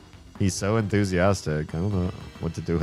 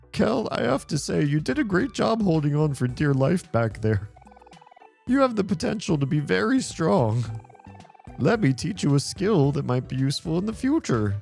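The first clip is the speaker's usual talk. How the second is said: clown voice. Acted. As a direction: play it like a cheerful clown. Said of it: "a clown voice or something".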